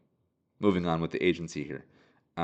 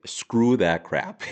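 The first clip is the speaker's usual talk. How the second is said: louder, slow, flat-out dismissive; dismissive refusal; 2 semitones higher, 7 dB louder, much slower than usual. Retold or imitated. Russian asset refusing the US request, loud and dismissive. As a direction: brush the whole plan off, slow and loud. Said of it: "the Russian guy is like".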